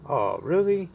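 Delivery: high-pitched mock lady's question; imitated woman. Lady reacts to the radiator news, in mock high voice. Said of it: "And she said".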